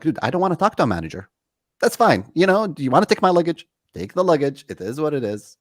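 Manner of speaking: loud, high, fast exasperated outburst; retold exasperation at the ticket agent. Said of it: "I get so annoyed with the ticket agent".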